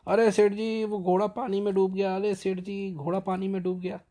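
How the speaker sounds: high, loud alarmed cry for the master; shouting. Retold or imitated. Servant yelling to his master that the horse drowned, loud mock panic. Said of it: "चिल्लाने लगा".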